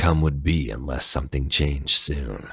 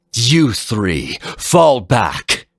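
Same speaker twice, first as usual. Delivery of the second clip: higher, louder barked command; commanding order; 7 semitones higher, 4 dB louder, much slower than usual. Acted. Harpuia orders the other guardians back, commanding.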